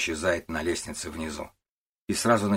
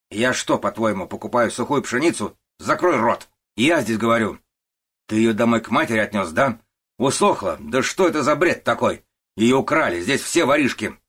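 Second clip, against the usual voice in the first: loud, raised furious tirade; angry shouting boss; 4 semitones higher, 7 dB louder than usual. Acted. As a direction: bark it down at the old worker. Начальник орёт на рабочего. (разъярённый начальник кричит на старого рабочего)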